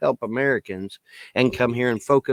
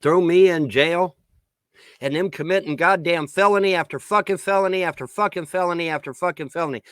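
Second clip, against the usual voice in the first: raised, louder protest; indignant outrage; 4 semitones higher, 3 dB louder than usual. Real, not acted. Ranter protesting a jail threat, indignant outrage. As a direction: protest the injustice with a lifted voice.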